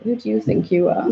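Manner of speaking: mock-contemptuous challenge, falling at the end; scornful put-down. Inner voice mocking her peace with scorn. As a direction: sneer it like the doubting inner voice. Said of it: "Not, it was like".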